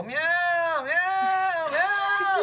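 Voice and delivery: very high drawn-out meows; whiny, squealed cat cries; defensive cat meows. Retold or imitated. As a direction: imitate a cat wailing in protest. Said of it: "if I'm attacking her".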